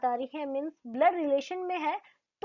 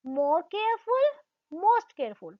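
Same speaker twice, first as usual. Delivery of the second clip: very slow, drawn-out more careful; 3 semitones higher, much slower than usual. Shown as a demonstration. Teacher slowly models the phrase for the class. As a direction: stretch each word out for students. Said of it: "एक साथ नहीं बोला".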